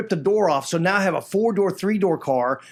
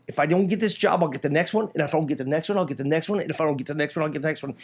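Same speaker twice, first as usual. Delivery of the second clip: steady determination; 2 semitones lower, faster than usual. Retold or imitated. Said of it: "I always remember telling the lady".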